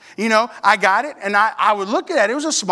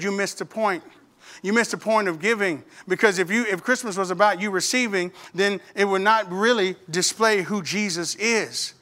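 softer motherly explanation; earnest admonishing; 3 semitones lower, 5 dB quieter than usual. Retold or imitated. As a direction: explain it patiently, keeping it low. Mother explains giving to son.

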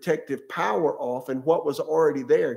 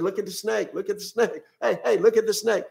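raised, high urging call to the camp; urgent call; 6 semitones higher than usual. Retold or imitated. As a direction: shout the instruction to the people. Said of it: "Moses said".

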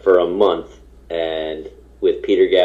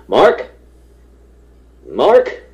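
calling out; 7 semitones higher, 6 dB louder than usual. Retold or imitated. Director calling into trailer.

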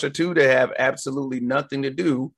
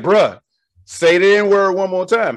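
threatening warning; 4 semitones higher, 4 dB louder, slower than usual. Retold or imitated. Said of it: "And he was like".

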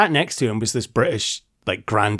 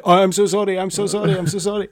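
mock apology; 8 semitones higher, faster than usual. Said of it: "And immediately he's like".

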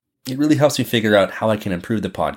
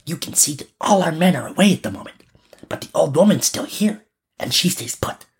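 put-on high child's voice, explaining a plan; robber girl scheming; 5 semitones higher than usual. A narrator's reading. Robber girl tells Gerda her plan, high-voiced. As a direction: play the little bandit girl up high. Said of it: "little robber girl said to Gerda".

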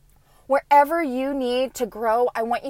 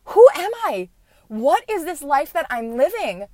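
amazed disbelief; 4 semitones higher, 4 dB louder than usual. Retold or imitated. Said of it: "I'm like".

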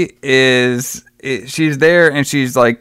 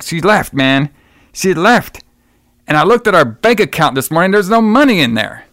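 frantic yell; 5 semitones higher than usual. Retold or imitated. Husband yelling that his wife and money are gone, in hammed-up panic. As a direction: play the frantic husband yelling about the empty account.

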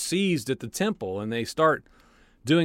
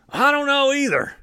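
very high put-on goofy voice; silly clueless brawler; 12 semitones higher, 5 dB louder than usual. Second mob guy admits he doesn't know either, in a goofy high voice. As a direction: play it dumb and a bit louder. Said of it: "and he's like".

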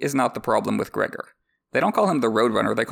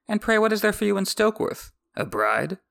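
pitched way up on pray, teasing; mocking question; 10 semitones higher than usual. Tyrion teasing Bronn about a bride, mocking high question. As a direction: needle him with a high mock question.

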